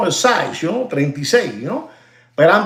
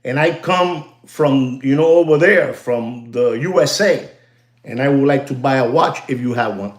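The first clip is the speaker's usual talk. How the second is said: calm request; 6 semitones lower than usual. Shown as a demonstration. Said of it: "You look at them in the eyes".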